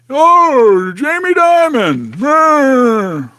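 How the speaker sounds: a quick half-hearted go at the bank boss; Jamie Dimon impression. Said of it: "I need to do a better impression".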